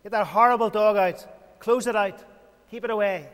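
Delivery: protective, alarmed shout to clear the room; urgent command. Pretend. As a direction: drive the snarling dog from the baby's room. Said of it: "you would say".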